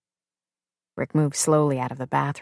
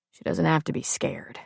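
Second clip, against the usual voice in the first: quiet; 7 dB quieter than usual. Acted. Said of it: "Rick said quietly".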